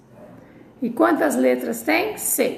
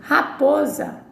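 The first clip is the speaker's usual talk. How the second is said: raposa drawn out slowly; slow syllable demo; 3 semitones higher, slower than usual. Shown as a demonstration. Teacher to class, slowly modelling raposa. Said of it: "Então, a palavra raposa".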